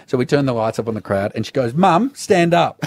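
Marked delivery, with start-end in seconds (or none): 1.7-2.8 higher, slow call across the room. Retold or imitated. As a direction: call your mum to stand up, slowly and high. Girl calls to her mum.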